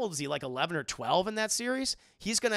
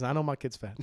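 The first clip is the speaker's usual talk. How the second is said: shouted reply; 3 semitones lower than usual. Pretend. Hank shouting back at Bill.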